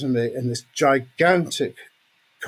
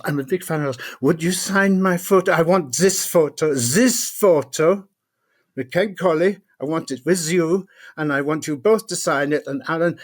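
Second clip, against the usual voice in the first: eager fan; 3 semitones higher than usual. Retold or imitated. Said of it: "normally they ask me for".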